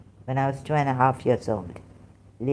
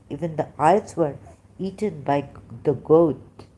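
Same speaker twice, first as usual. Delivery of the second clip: usual speaking voice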